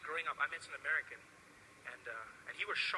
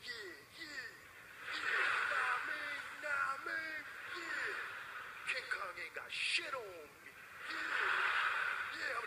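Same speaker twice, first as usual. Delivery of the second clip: put-on practicing black American accent; 10 semitones higher, much slower than usual. Trevor practicing on the flight, swaggering put-on American accent. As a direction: hype himself up, nah man.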